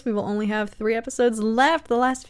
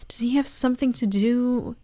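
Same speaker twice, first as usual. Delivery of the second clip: whisper. Real, not acted. Musing aloud.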